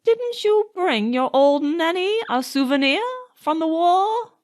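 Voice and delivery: put-on gently coaxing old nanny. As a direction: coax him sweetly for a present. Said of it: "very coaxingly".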